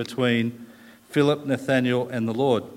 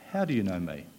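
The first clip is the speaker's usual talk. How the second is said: tentative try at the line; 5 semitones lower, 5 dB quieter, faster than usual. Shown as a demonstration. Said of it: "It's hard to put the right in-, inflection on it".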